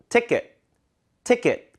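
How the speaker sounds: 티켓 with second syllable reduced to 끝; ending like 끝. Shown as a demonstration. Teacher modelling, 티켓 ending like 끝. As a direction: stress the first syllable of 티켓, tense weak ending. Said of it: "그 끝 느낌으로".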